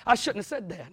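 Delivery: a mild mock apology; sheepish apology. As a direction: back down after saying too much. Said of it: "you're like".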